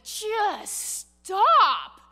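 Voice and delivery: high, loud exasperated command; stern rebuke. Retold or imitated. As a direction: shut down his excuses hard. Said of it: "Samuel's response ... along the lines of".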